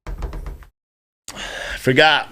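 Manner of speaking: a drawn-out whispered aside to himself; slow whisper. Pretend. Streamer whispering to himself after losing his train of thought, slow whisper. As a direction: breathe it out slowly as a whisper. Forgetting mid-rant, then repeats whispered.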